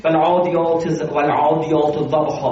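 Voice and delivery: slow, low recitation with thick, full consonants; heavy letters. Shown as a demonstration. Teacher showing a sura of heavy letters, slow full-mouthed recitation. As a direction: recite "والعادیات ضبحا" with big, heavy sounds. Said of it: "همه درشت".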